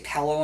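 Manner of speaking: "pillow" said pellow, with an eh vowel. Shown as a demonstration. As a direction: say pillow to rhyme with fellow. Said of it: "if you say pillow".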